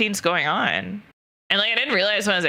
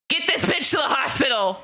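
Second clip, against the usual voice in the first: urgent order; 6 semitones higher than usual. Retold or imitated. Ophthalmologist ordering them to the hospital, mock urgent shout. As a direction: bark it out like an alarmed doctor.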